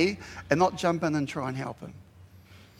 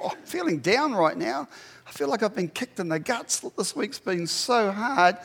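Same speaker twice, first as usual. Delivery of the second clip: high, slowing lament, mildly acted; imitated discouragement; 4 semitones higher than usual. Preacher voices a person going through difficult times, downcast. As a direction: voice someone worn down by a hard week. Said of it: "goes through a difficult time and says".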